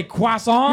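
croissant as a quacky kwah-sahn; "croissant" said kwah-sahn, like a duck; French-style pronunciation. Retold or imitated. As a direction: reluctantly copy "croissant" without the T. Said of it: "I sound like a duck saying".

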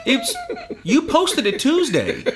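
slow, high, amused through laughter; gloating, laughing. Real, not acted. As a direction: say it while still laughing.

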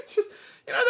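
words through laughter; laughing. Real, not acted. Laughing at vague description.

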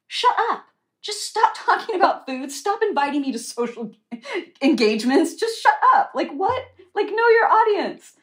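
high, loud exasperated rant breaking into laughs; mock furious rant at the doctor; exasperated outburst. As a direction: vent at him, half laughing. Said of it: "And I'm like".

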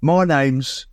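slow, cockney Michael Caine drawl; lightly voiced London accent; Michael Caine impression. Announcing the next song as Michael Caine, slow cockney.

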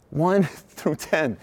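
"One" drawn out slowly with a laugh before "through ten"; slow, laughing re-read. Retold or imitated. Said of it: "and it says gates one through ten".

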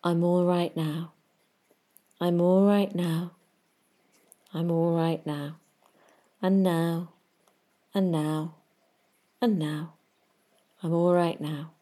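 soothing hypnotic mantra, unhurried pauses; calm self-talk mantra. Shown as a demonstration. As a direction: repeat it gently like a hypnotic mantra. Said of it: "and that is to say".

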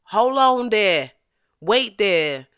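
put-on drawn-out Louisiana accent. Trying out a listener's line from Louisiana, drawled accent. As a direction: stretch it out like someone from Louisiana. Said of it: "that sound very Louisiana right there".

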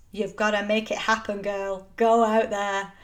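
put-on playfully faking an American accent, and failing; bad American accent. Host mocking pushy advice, in a failed American accent. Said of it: "That was me trying to do an American accent".

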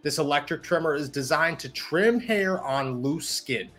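upbeat sponsor ad read. Acted. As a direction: sell it like a podcast ad. Host reads sponsor ad.

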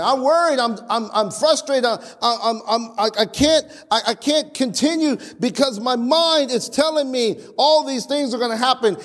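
anxious stuttering imitation; worried, anxious voice. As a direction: play the frightened believer tripping over words. Mocking a fearful believer's words.

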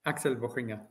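"Volschinger" said by its owner as vol-KING-er, /vɔkɪŋə/; "Volschinger" said correctly and calmly, hard k, no sh; native pronunciation of the name. Shown as a demonstration. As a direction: give "Axel Volschinger" the proper Austrian way, hard k in the middle. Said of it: "will you do it for our listeners properly".

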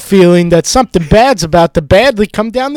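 mock looter. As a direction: babble it like a jittery crook.

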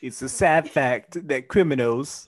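hammed-up attempt at a British accent; Bimini Bumboolash. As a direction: put on an affected British voice. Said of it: "I just turned into Bimini Bumboolash".

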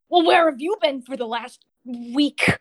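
a touch of testy impatience; snapping. Acted. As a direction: snap at them, mildly stressed. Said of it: "I guess he kinda snaps".

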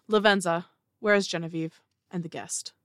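loud call down the hall; shouted summons. Acted. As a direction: call her name loudly from the doorway. Keeper calls out into hall.

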